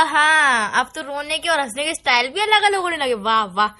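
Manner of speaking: mock applause, voice dropping low; low sarcastic wah wah; sarcastic mockery. Real, not acted. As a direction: sneer at his excuse with fake praise. Jealous girlfriend mocks him.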